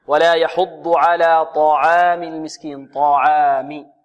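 slow, measured tajweed recitation; Quran recitation. Shown as a demonstration. Teacher modelling the verse for students, measured recitation. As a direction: recite it slowly with drawn-out long vowels.

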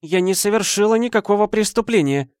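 high, loud outcry of denial; cry out. A narrator's reading. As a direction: cry out against the accusation. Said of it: "вскричала она". (вскрик отрицания)

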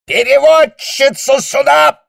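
very high, loud, slow yell; an officer's howl summoning the interpreter; bellow. A narrator's reading. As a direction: scream down the whole staircase. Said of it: "вопль шарфюрера".

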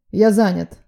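loud, brusque brush-off; curt shout. A narrator's reading. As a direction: snap it out over the shoulder. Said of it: "бросил, не поворачиваясь". (резко брошенный окрик)

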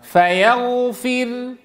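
فيغفر read very slowly, the final راء light with lips rounded for the damma; demo of ishmam. Shown as a demonstration. Teacher demonstrating a Quranic stop to students, slow and precise. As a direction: stretch فيغفر and close on a silent lip rounding. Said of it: "فترقق وتشير بالضم".

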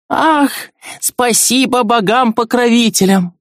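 put-on old woman's relieved cry, pitched high; relieved exclamation. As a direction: cry out thanks to the gods. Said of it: "воскликнула она".

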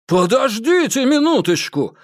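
high, loud panicked yell. A narrator's reading. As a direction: shout to stop the guard. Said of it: "заорал Хэрот".

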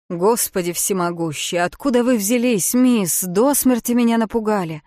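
Джим, громко и испуганно; startled rescuer. Acted. Startled man finds her ashore.

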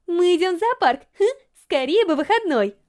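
put-on eager girl gushing about the zoo trip; Yurika's voice. A narrator's reading. Yurika celebrating.

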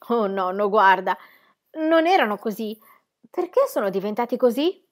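lightly voiced child full of wonder; lightly voiced little girl. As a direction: marvel like a little girl at pink mountains. Narrator voices child Heidi.

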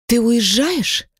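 high, slow, doomed question; resigned. A narrator's reading. Woman sinks onto the bed, asking resignedly. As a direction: ask as if already defeated. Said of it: "обречённо произношу".

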